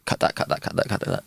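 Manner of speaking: unvoiced whisper to the editor; hushed aside. Real, not acted. Guest whispering to the editor to cut it. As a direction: whisper it so the mic barely catches it.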